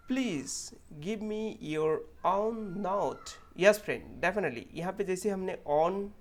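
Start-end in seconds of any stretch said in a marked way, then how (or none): 0.1-3.3 slow, careful demo of own note; example sentence. Shown as a demonstration. Teacher slowly reading an example sentence to students. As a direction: read it slowly, stretching each word. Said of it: "जैसे हमारे पास sentence है".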